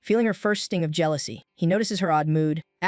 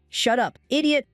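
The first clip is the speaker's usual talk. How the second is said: embarrassed yell; 6 semitones higher than usual. A narrator's reading. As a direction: yell it to hide the blush.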